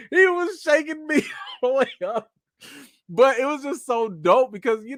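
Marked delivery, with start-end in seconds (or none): 0.1-2.3 high voice breaking up with laughter; cracking up while telling it; real laughter. Real, not acted. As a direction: laugh through the words, pitch way up. Laughs recalling the shaking hug.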